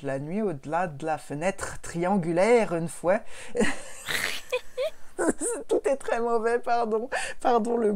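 slow, mock Belgian accent with a tacked-on "une fois"; lightly hammed fake Belgian accent; pseudo Belgian accent. Shown as a demonstration. Podcaster tries a fake Belgian accent on the title. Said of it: "un espèce de pseudo belge".

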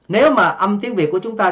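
ordinary delivery

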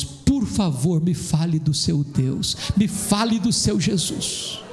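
very slow, imploring retelling; retold tearful plea. Atheist cadet begging to hear about God, imitated tearful plea. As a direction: plead slowly, understated, as if moved to tears. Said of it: "e disse com lágrimas nos olhos".

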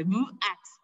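BUAX with the apostrophe pronounced hard; forceful glottal start. Shown as a demonstration. Teacher shows pupils the apostrophe in Kaqchikel, forceful pronunciation. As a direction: say "Buax" with a strong catch before the vowel. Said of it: "lo voy a pronunciar fuerte".

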